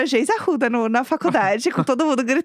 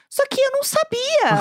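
laughing through it; 11 semitones higher than usual. Real, not acted. Laughs while retelling, near tears.

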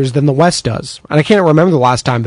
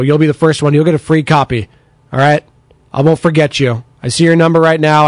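ordinary delivery

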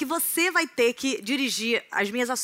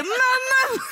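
squeaky joke voice; 13 semitones higher, 4 dB louder than usual. Pretend. Jokey name change.

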